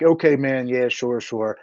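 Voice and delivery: trailing, half-hearted yeses to a friend; placating retold agreement. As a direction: agree just to end the call. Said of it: "I'm literally just agreeing with him".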